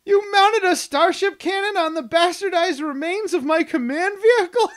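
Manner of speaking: loud, high, hammed-up indignation; appalled outburst. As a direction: bellow it in mock horror at the desecration. Acts out the appalled commander's outburst.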